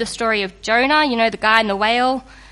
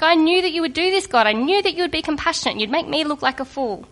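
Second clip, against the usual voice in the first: quick, higher, indignant protest; rushed, raised-pitch whine at God; Jonah complaining; 4 semitones higher, faster than usual. Retold or imitated. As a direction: blurt it out like a sulking prophet caught out. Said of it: "And he's like".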